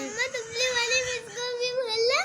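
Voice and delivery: tearful plea. Real, not acted. Little girl asking mama to tell the thin teacher too, crying. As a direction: beg through sobs. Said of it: "ये मरियम रो रही है".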